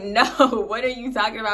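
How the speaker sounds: quick, laughing brush-off; laughing denial. Retold or imitated. Grinning at her boyfriend's teasing, a quick laughing denial. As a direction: deny it while laughing. Grinning while denying party.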